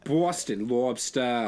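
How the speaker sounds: lightly put-on Boston accent; playful hint of Boston accent. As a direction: toss out words in a mock Boston accent. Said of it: "Heavy onto the Boston stuff lately".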